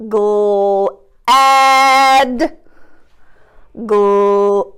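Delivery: glad drawn out on the short a; stretched glad; roller coaster word. Shown as a demonstration. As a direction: hold the a in glad. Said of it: "it was ad".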